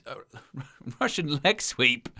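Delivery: laughs through the retry; laughing. Real, not acted. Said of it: "I'll get there in the end".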